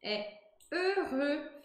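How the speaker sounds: "heureux" very slowly, closed rounded E twice; "heureux" slow, lips rounded; French heureux. Shown as a demonstration. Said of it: "pra eu pronunciar esse peureux e heureux". ("heureux" bem devagar com biquinho)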